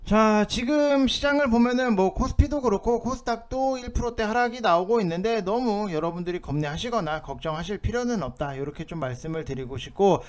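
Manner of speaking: usual speaking voice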